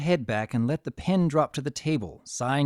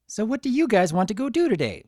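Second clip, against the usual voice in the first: bubbly Pinkie voice; 8 semitones higher, 4 dB louder, faster than usual. A narrator's reading.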